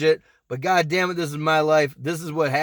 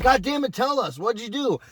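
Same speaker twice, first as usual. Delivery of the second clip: higher-pitched, impatient mock demand; freaking out; 5 semitones higher than usual. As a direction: act out begging for the rest. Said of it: "like, I'm freaking out".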